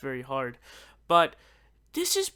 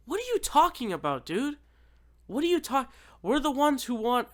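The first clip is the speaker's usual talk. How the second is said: exasperated outburst; 5 semitones higher, 3 dB louder than usual. Real, not acted.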